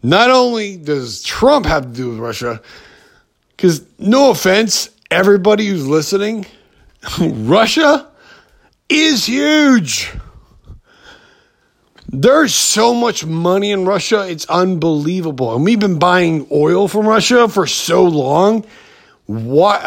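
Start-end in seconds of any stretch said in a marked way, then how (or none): 3.6-15.6 rising excitement on is huge; excited. Real, not acted. Podcaster ranting to listeners, voice climbing higher and excited. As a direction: pitch climbing higher, fast and laughing. Excited rant about Russia.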